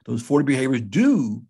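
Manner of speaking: "do" stressed firmly at the end. Shown as a demonstration. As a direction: hit "do" like it's in capitals. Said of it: "capital D O".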